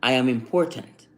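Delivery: measured affirmation. Shown as a demonstration. Man showing how to train his talk, affirmation. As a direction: state it calmly as a self-affirmation. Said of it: "you start talking like this".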